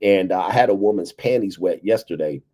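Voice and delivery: usual speaking voice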